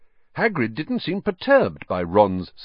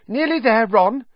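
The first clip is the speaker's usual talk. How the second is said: put-on higher, brisk girl's voice; a higher, louder girl's encouragement; encouraging Hermione; 13 semitones higher, 5 dB louder than usual. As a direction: urge him on, nearly there.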